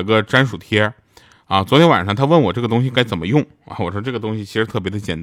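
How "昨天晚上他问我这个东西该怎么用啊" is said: ordinary delivery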